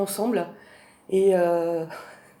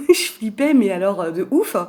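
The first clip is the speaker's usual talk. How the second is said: excited emphasis; 5 dB louder than usual. Real, not acted. Emphatic repeat louder, higher.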